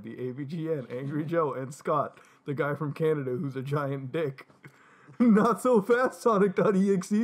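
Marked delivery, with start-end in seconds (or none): 5.2-7.2 bold shout. Acted. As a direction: announce it like a hero. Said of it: "Mutahar shouted boldly".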